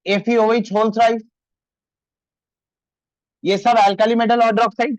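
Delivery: very slow, spaced-out words; unhurried classroom dictation. Shown as a demonstration. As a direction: drag it out so the class can copy it. Teacher dictating formulas slowly.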